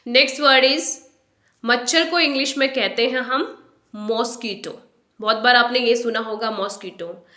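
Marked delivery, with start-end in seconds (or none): 3.9-7.3 मॉस्किटो as MOSS-ki-to; common mispronunciation. Shown as a demonstration. Teacher quoting what learners hear, मॉस्किटो as MOSS-ki-to. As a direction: say मॉस्किटो with open "moss" at the front. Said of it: "but इसे हम मॉस्किटो नहीं बोलेंगे".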